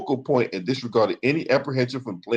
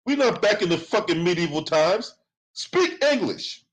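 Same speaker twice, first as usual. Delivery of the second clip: lightly hammed-up old-fashioned voice; mock medieval scold; 4 semitones higher than usual. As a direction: sneer it out like an old-time snob. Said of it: "No one talks like that".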